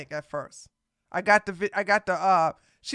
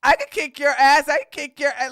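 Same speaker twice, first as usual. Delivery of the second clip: put-on louder, tough-girl threat, half-playful; mock threat; 4 semitones higher, 5 dB louder, faster than usual. Mocking a tall girl threatening a small one, in a loud mock threat. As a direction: puff up and threaten, half joking. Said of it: "you gonna be like".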